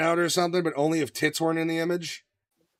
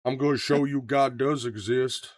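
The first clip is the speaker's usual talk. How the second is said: put-on lightly drawled Southern movie-hero accent; slow, mild Southern drawl on an action-hero line; Nicolas Cage; slower than usual. Quoting Con Air to his co-hosts, hint of Southern accent. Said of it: "you don't have to do the accent".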